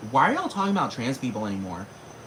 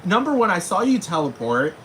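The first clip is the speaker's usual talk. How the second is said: pleading with mom; 9 semitones higher, 4 dB louder than usual. Retold or imitated. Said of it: "I'm like".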